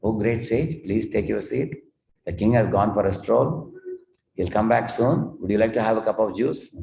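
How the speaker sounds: a lightly voiced courteous parrot greeting the sage; sweet polite parrot. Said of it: "that parrot was speaking very sweetly".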